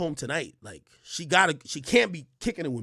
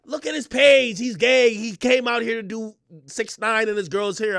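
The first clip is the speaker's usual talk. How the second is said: lightly voiced girlfriend; 2 semitones higher, 5 dB louder than usual. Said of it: "she was like".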